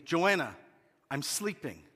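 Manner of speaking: half-asleep defensive mumble. Retold or imitated. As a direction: protest sleepily, mock defensive. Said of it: "I said defensively".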